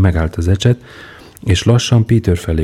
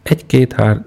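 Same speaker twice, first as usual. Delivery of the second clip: dictating count; 6 semitones higher than usual. Acted. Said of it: "diktálta Péter".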